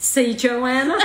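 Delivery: slow, laughing nudge; laughing appeal. Real, not acted. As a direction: tease through laughter.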